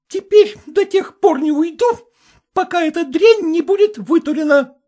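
high, shrill-free loud scolding; angry mistress. Acted. Jealous Vasilisa scolding the cook, high and angry.

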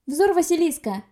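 high shouted incantation; shouted spell. A narrator's reading. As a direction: cast it out with a cry. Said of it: "выкрикнула Миранда". (Миранда выкрикивает заклинание, высоко и громко)

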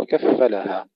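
"وكفلها" with a stressed, doubled fa, wakaffalaha. Shown as a demonstration. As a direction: press the fa in "وكفلها". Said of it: "عاصم وحمزة والكسائي وخلف العاشر قرأوا". ("وكفّلها" بتشديد الفاء)

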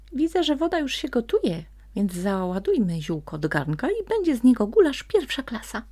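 high, loud gleeful announcement; sprite announcing. A narrator's reading. Sprite announces the fox goes in the pot, high and loud. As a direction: proclaim it to scare the fox. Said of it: "oznajmił Purchawka".

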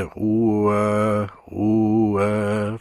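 plain reading voice

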